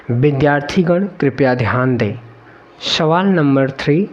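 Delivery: playful announcer voice for students; mock train announcement. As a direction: announce it like a station speaker. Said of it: "यात्रीगण कृपया ध्यान दें".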